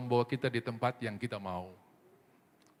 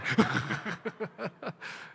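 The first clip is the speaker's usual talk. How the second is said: amused laugh at own joke; laughter; 7 semitones higher than usual. Real, not acted. Preacher laughing at his own airplane joke. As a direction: break into laughter.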